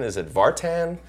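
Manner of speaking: "Vartan" with both syllables sounded fully, ending in "tan"; another pronunciation guess. Retold or imitated. Imitating people puzzling over his surname "Vartan", full "tan" ending. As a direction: offer "Vartan" as a questioning guess with a clear "tan". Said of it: "much more hard time with my last name".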